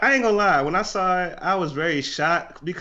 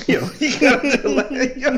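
laughing; 11 semitones higher, 5 dB louder, slower than usual. Real, not acted.

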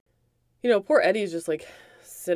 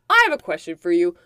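retold demand; 3 semitones higher, 4 dB louder, faster than usual. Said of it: "He's yelling".

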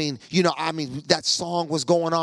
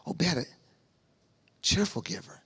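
much softer, almost whispered voice of God; the Lord murmuring; 8 dB quieter than usual. Retold or imitated. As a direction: breathe it like a voice in his head. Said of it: "like, the Lord say".

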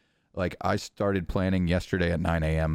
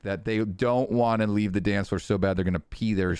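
robot voice. Real, not acted. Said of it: "your voice sounds like a robot".

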